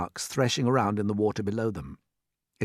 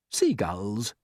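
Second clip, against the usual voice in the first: calm answer. Acted. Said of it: "James answered calmly".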